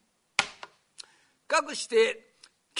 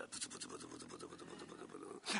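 much lower, much softer fast mumbling; inaudible mumble; 18 dB quieter, much faster than usual. Retold or imitated. Distracted doctor mumbles to the patient, inaudibly. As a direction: mutter unintelligibly under your breath.

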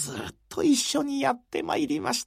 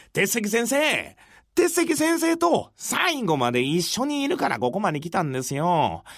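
put-on earnest, eager young retainer; lightly voiced loyal disciple; devoted young follower. Motokichi answers his teacher.

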